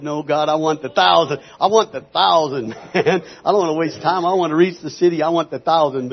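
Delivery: loud, emphatic insistence; insistent honest demand. Retold or imitated. Minister retells his true answer to God, loud insistence. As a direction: hit each want hard and loud. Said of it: "But the truth is".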